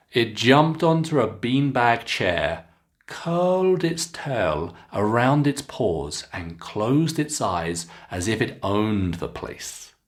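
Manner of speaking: clear, expressive teacher read-aloud; careful storybook reading for students; model reading aloud. Shown as a demonstration. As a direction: read it slowly so learners can copy. Teacher reads model passage aloud.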